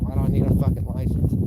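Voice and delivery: annoyed wife. Retold or imitated. Wife griping at husband about the license class, mildly mad. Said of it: "She's so mad at me".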